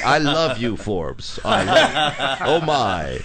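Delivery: loud, high game show host gushing. Retold or imitated. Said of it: "a game show host voice saying".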